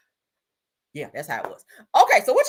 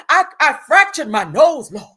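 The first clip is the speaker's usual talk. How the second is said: A singer; 5 semitones higher, 9 dB louder than usual. Retold or imitated. Reading a singer's injury post aloud, hammed-up agony. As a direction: overplay the suffering, drawing it out. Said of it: "I gotta read it in her voice".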